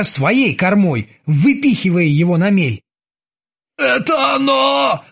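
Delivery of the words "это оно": slow, high panicked wail. A narrator's reading. Krueger wails at the yacht in terror. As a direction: howl it out in terror. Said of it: "завопил Крюгер".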